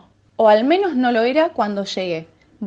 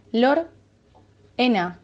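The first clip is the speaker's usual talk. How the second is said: drawn-out call; much slower than usual. Acted.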